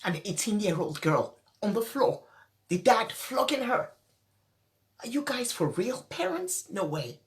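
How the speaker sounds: quiet tearful disbelief; speaking through tears, voice soft. Real, not acted. Upset host to viewers, speaking through quiet tears. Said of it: "I'm teary".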